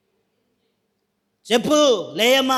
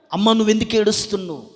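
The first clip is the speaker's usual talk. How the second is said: toned-down question; faster than usual. Acted. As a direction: drop from preaching into a personal question. Same question repeated, toned down. (గొంతు తగ్గించి అడుగుతూ)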